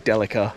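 "Delica" as DEL-i-ca in an Australian accent; correct pronunciation. Shown as a demonstration. Driver defending the local habit, "Delica" said properly as DEL-i-ca. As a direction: say "Delica" as DELL-uh-kuh, stressed first. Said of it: "than pronouncing it correctly".

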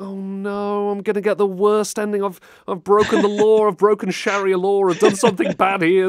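high and loud hammed-up panic; rising mock alarm over the wrong choice. Streamer retelling his fear of the worst ending, loud mock panic. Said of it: "It's like".

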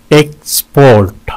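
"एक्सपोर्ट" in two beats, second held; syllable breakdown. Shown as a demonstration. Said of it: "दो syllables हैं इसके". ("एक्सपोर्ट" दो हिस्सों में)

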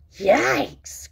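high yelp of disgust; mock-horrified exclamation; alarmed cry. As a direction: yelp it, pitch jumping up. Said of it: "cried Froggy".

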